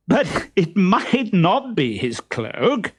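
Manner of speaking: trying not to laugh; words bubbling with a held-back laugh; stifled laugh. A narrator's reading. Harlequin to Columbine, holding back a laugh. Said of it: "trying not to laugh".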